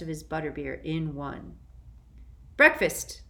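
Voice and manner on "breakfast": higher, louder happy announcement; loud and joyful. Acted. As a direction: call out breakfast with joy. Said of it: "said Sirius loudly and joyfully".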